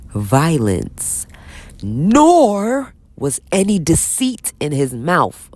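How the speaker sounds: slow, solemn Bible reading; scripture reading. Acted. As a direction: read each word like holy text. Reads scripture aloud slowly.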